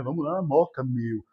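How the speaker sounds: mock Mooca-style paulistanês; São Paulo accent. Shown as a demonstration. Showing students the paulistanês he learned, São Paulo accent. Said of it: "aprender a falar paulistanês".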